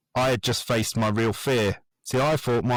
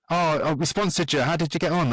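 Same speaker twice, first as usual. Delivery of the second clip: higher, lightly imitated eager son; excited kids; 5 semitones higher than usual. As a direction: play his boy, keen to hear the news. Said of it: "all excited".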